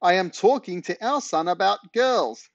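high, loud exasperated call; shouted. Acted. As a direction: spell it out loudly down the stairs. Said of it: "shouted Mum".

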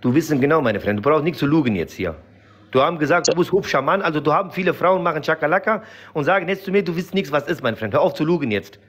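put-on heavy foreign accent, broken grammar; broken-German accent. Character answering the interviewer in broken accented German. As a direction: play a Kurdish immigrant in broken German.

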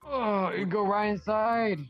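slowed down, spelled out for a bad line; slow clear repeat. Greeter repeating slowly to a confused visitor. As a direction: say it again slowly so they hear. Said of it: "you're breaking up".

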